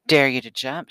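loud, taunting call; a narrator's contained yell; yelled dare. A narrator's reading. Rosie daring Eunice at the swings, yelled. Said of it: "she yelled at Eunice".

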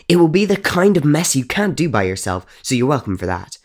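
put-on a ghost girl relishing her plan to wreck the house; building from sly to loud delight; gleeful scheming. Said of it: "dictating the rules of her newest game".

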